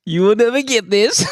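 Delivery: playful gloating; sing-song tease with NEVER lifted; taunting. Real, not acted. Teasing a loser again.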